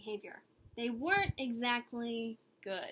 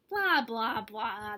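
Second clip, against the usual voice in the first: dismissive; 3 semitones lower, 5 dB louder, much slower than usual. Acted. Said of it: "they replied".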